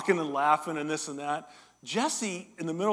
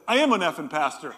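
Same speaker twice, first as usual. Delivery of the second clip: a hint of a prophet's solemn, louder declaration; prophetic pronouncement; 6 dB louder than usual. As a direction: declare it like a prophet laying down the word. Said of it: "in all the prophetic mode that I had".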